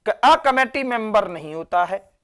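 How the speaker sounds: says "a committee member" slowly, then adds that it is not correct; walk through the wrong form slowly; slow correction. Shown as a demonstration. Teacher marking a wrong example for students, slow explanation. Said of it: "इधर देखेंगे".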